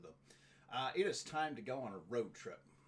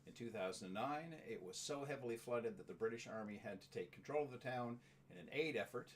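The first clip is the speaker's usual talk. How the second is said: informational read-out. Real, not acted. Reads out a town description.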